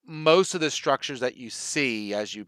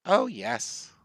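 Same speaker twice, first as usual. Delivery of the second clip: put-on old woman; 5 semitones higher than usual. Game master answers as old Nanny.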